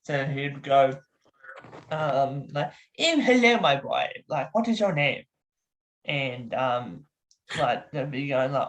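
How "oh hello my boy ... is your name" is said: London doctor trying to be hip; hammed-up London character voice; Doctor Cromwell. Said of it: "His name is Doctor Cromwell".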